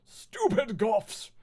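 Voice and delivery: slow, loud, high jeer; drawn-out furious scolding; angry shouting. Acted. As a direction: yell the insult, stretching both words. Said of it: "started shredding at us angrily".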